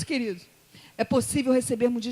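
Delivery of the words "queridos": ordinary delivery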